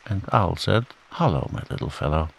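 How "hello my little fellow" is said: softer, quick kindly greeting. Acted. Owl answering little Roo, kind and soft. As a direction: pat him on the head with your voice. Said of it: "in a kind way".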